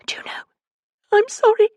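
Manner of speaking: gasping, pitched high in distress; panicked caller out of breath; breathless. A narrator's reading. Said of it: "She sounded breathless".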